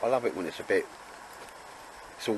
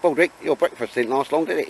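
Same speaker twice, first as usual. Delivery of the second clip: teasing dog; 7 semitones higher, 5 dB louder than usual. Real, not acted. Talking to his dog.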